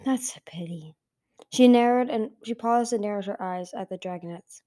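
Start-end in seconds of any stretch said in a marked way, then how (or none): 0.1-0.9 low, hushed villain's remark; understated cool disappointment; cool, calm. A narrator's reading. Blister regretting her sister's survival, cool and calm. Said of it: "in a cool, calm voice".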